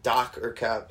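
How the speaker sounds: light Russian accent on Doc or Cap. Shown as a demonstration. Hosts quizzing each other, Doc or Cap in a mild Russian accent. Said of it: "So I'll say it in a Russian accent".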